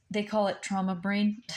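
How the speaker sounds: breathy whispered aside through a laugh. Real, not acted. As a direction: whisper it with a small nervous laugh. Nervous aside about her memory.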